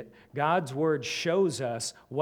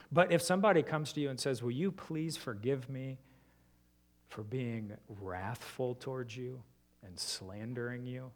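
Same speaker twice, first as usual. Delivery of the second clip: soft, earnest plea for forgiveness; sincere confession; 2 semitones lower, 5 dB quieter than usual. Shown as a demonstration. Pastor voicing a sincere confession to a listener, soft and earnest. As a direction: ask forgiveness gently and truly. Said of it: "Isn't your heart ready".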